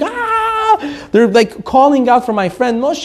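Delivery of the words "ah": mock scream. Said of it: "Everyone's screaming".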